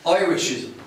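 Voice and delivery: "Irishism" opening on "oi"; "oi" as first syllable of "Irishism"; oi pronunciation. Shown as a demonstration. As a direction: say "Irishism" as "Oi-rishism". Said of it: "is pronounced "oi".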